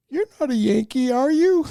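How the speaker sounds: put-on high, wondering little-girl voice, breaking into a laugh. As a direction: ask it like a curious small child. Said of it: "and she goes".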